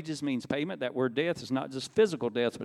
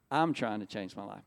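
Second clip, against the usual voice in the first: lower-pitched, sober repeat; sober restatement; 5 semitones lower than usual. Retold or imitated. Repeating his words to the congregation, sober restatement. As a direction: bring the pitch down to drive it home.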